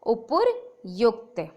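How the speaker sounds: उपयुक्त drawn out, every syllable clear; slow careful pronunciation. Shown as a demonstration. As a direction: stretch उपयुक्त slowly for the class. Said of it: "जबकि होता है". (उपयुक्त को बहुत धीरे बोलें)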